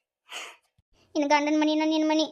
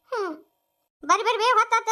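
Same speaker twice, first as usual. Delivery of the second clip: calling out; 5 semitones higher than usual. Acted. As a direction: shout them along after a sob. Sob then calling others to hurry.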